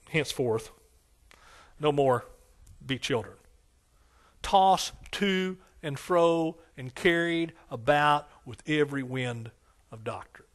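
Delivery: slow, drawn-out scripture recitation; King James reading. Shown as a demonstration. Pastor reads King James to the congregation, slow recitation. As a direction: read the old words out slowly, like the pulpit Bible. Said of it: "and I know this is King James".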